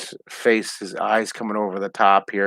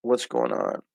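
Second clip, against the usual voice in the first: a hint of a wary little frog asking a question; cartoon frog talking; 4 dB quieter than usual. Art teacher voicing the drawn frog to viewers, lightly puzzled. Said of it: "He's like".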